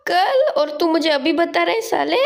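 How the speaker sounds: high-pitched mock disbelief; surprised protest. Friend told only now about tomorrow's arrival, surprised protest. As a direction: jump up in pitch, astonished at your friend.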